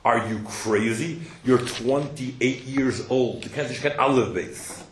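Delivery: slow, drawn-out disbelief, a hint of a dismissive dad; modern scoffing father. Father scoffing at his twenty-eight-year-old son, slow mock disbelief. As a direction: stretch it out like a father who can't believe it. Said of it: "I can just see the modern equivalent".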